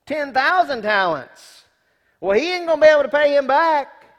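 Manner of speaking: booming preacher emphasis; emphatic exclaim. Real, not acted. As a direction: hammer home the huge debt. Preacher exclaims debt size.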